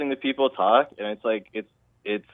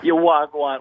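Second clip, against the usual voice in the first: pitched-up Jamaican accent demo; 4 semitones higher, 4 dB louder, slower than usual. Shown as a demonstration. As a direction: show off your Jamaican patois. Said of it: "that's my Jamaican accent".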